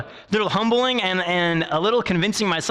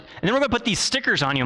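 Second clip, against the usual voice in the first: fast, higher, chirpy therapist voice; bubbly cheerleader therapist; 5 semitones higher, faster than usual. Retold or imitated. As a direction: rattle off the plan brightly and quickly. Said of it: "bubbly and happy and all cheerleader-like".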